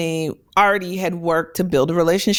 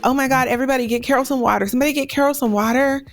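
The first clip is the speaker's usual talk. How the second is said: mock urgent call; 4 semitones higher, much faster than usual. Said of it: "I'd be like".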